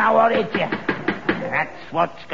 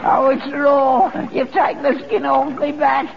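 self-pitying moan; 5 semitones higher than usual. Acted. Moaning about raw skin.

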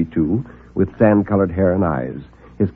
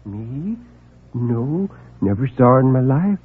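timid little man; 3 semitones higher, slower than usual. Acted. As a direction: mumble it apologetically.

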